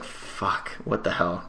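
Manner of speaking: hushed, breathy whispered swearing; whispered curse. Retold or imitated. Walking away from the skater, whispered self-reproach. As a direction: whisper it to yourself in dismay. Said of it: "I walked away and I was like".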